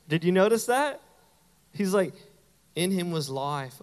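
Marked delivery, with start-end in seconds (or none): 2.7-3.8 put-on southern accent. Pastor imitating John from The Chosen, shaky southern accent. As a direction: imitate a southern accent, not quite successfully. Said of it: "like, a southern accent".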